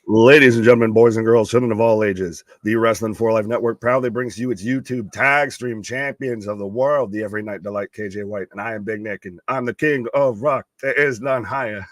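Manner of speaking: booming circus ringmaster intro, loud then settling. Acted. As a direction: announce it like a ringmaster under the big top. Co-host's grand show introduction.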